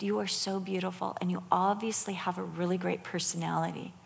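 soft, motherly retold praise; gentle affirmation. Retelling praise for a teenage girl, gentle affirmation. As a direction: tell her kindly, keeping it soft.

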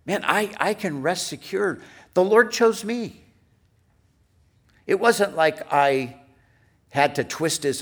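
high, rising to a loud declaration; exultant assurance. Acted. Believer resting secure because the Lord chose them, exultant assurance. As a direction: proclaim it with lifted pitch and growing force.

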